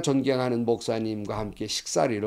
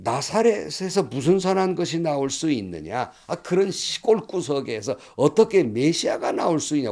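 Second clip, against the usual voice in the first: mildly scornful retold objection; cynical; 3 semitones higher than usual. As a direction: voice a skeptic dismissing the claim, lightly acted. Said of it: "냉소적이었습니다". (살짝 냉소적으로 흉내 내는 말투)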